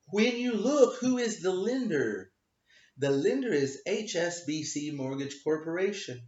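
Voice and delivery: a stiff, halting ruling in a light put-on voice; imitating the magistrate. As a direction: read the ruling the way she stumbled through it. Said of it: "her wisdom announced her decision on the record".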